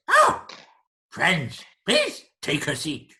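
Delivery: high squawked "oh", then loud creature invitation; creature host. Acted. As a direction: greet guests loudly as an excitable creature. Creature greets newcomers.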